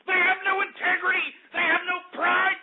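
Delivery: jab each word in disgust; indignant rant. Acted.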